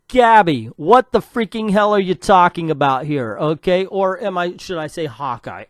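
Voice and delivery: loud, indignant telling-off; fed-up rant; exasperated scolding. Real, not acted. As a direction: call the writer out, loudly exasperated. Scolding the absent writer.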